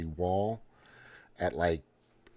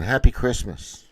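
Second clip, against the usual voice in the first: imitating the kid; 7 dB louder than usual. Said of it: "This kid's going".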